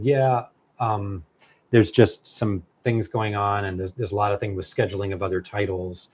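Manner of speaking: halting, hesitant editor's excuse; stumbling. Retold or imitated. Editor dodging the author's question, stumbling. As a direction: stall and stumble over the explanation. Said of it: "She was kind of stumbling".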